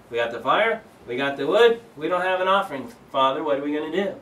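imitating a puzzled son pressing his father; anxious son. Retelling Isaac's worried question.

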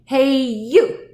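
loud, high hail; grouchy challenge. A narrator's reading. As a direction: call out like a scrappy ladybug. Grouchy ladybug accosts stag beetle.

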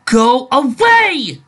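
slow, high, loud eerie voice; a spirit driving them out; ghostly voice. Acted. Ghost voice during the attack.

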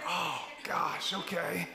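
drawn-out, let-down mock reply; mock reluctant acceptance. Pastor hearing a church-hopper's excuse, mock reluctant. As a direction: draw out a grudging okay.

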